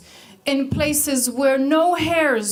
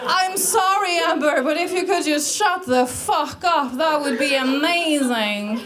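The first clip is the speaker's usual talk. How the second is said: mock polite telling-off; 4 semitones higher than usual. Imagined telling-off of Amber.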